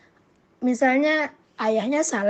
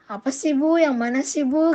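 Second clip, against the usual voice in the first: lightly voiced child, higher pitch; a hint of a questioning kid; curious child; 4 semitones higher, 4 dB louder than usual. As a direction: ask mother like an eager child.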